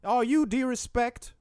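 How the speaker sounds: high, sustained singsong oratory; Martin Luther King. Acted. Co-host takes over as King greeting the interviewer, high orator impression. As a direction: chant it like a hammed-up preacher. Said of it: "Let's, let's reverse this".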